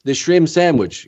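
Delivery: put-on slow, lightly accented French wrestler voice; a hint of Rene Goulet's French accent, slowed down; mild French Canadian impression. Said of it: "I remember Rene Goulet would say".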